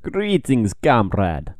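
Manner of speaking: put-on a weak Russian accent; half-hearted Russian greeting. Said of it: "that was a terrible Russian accent".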